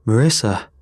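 loud call of a name; urgent shout. A narrator's reading. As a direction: shout to jolt her into action. Urging frozen woman to act.

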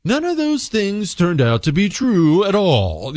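lightly imitated news anchor delivery; mock TV reporter reading a verdict. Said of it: "in that news reporter voice".

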